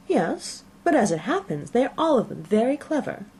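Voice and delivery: high, fluttery indignant mother; the wife, put out and fussing; indignant Mrs Bennet. A narrator's reading. Wife scolding her husband, high and fluttery.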